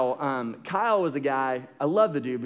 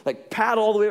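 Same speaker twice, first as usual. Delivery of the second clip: sharp, much higher and louder angry yelling; yelling in anger; 7 semitones higher, 5 dB louder than usual. Retold or imitated. Friends yell at Kyle over the whistle, angry and loud. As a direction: let the pent-up rage pour out at him. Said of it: "we just start yelling at him".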